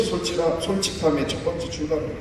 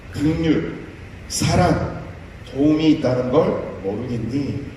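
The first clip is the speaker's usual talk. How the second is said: loving God. Acted. God speaks lovingly to Moses.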